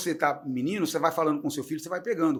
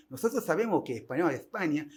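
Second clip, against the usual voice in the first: imitated accent of Spain; Castilian Spanish accent. Imitating a Spaniard about the language, Spain accent. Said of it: "Você chega na Espanha".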